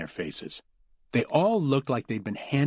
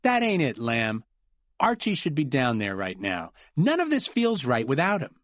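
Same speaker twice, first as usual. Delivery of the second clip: higher, aggrieved complaint; upset Glenn; 4 semitones higher than usual. Acted. Glenn telling Cooper it feels wrong, high and aggrieved. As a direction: push back, stung and bitter.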